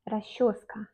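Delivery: "расчёска" with soft hush, ra-SHOS-ka; Russian pronunciation demo. Shown as a demonstration. Teacher showing how it is pronounced, "расчёска" as rashoska. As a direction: merge сч in "расчёска" into sh. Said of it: "on prononce расчёска".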